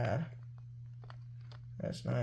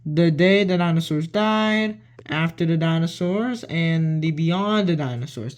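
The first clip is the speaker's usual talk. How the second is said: reading titles aloud; 5 dB louder than usual. Shown as a demonstration. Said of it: "let me read it".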